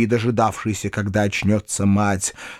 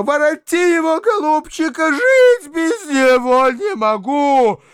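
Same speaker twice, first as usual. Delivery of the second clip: high, louder howl, last words dragged slow; 4 dB louder than usual. A narrator's reading. Old mother howling at her son, loud and slow. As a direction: wail it to breaking point. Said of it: "продолжала вопить старуха".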